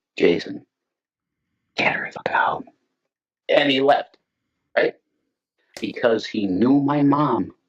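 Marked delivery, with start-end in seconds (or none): 0.2-2.7 hushed whisper, under the breath. Retelling what a man in the room whispered to Jason, retelling a whisper. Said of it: "And he whispered to me".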